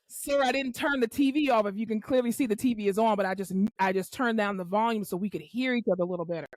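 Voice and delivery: retold even, patient reasoning; calm explaining. Therapist explaining the turned-down TV to patient, calm. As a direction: explain politely to someone who is upset. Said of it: "I'm not yelling at you".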